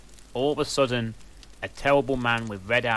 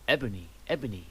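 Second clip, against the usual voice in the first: worried; 2 semitones higher than usual. A narrator's reading. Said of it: "in a worried voice".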